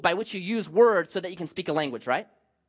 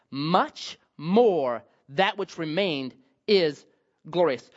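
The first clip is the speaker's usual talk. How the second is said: scripture reading; 3 semitones lower than usual. Acted. Preacher reading the scripture to the congregation, solemn. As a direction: read the verses with weight.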